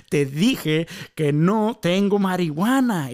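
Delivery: slow, defiant and firm. Retold or imitated. Teen refusing the tall stranger, slow and defiant. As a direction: dig in and refuse slowly. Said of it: "como con más agallas le dije".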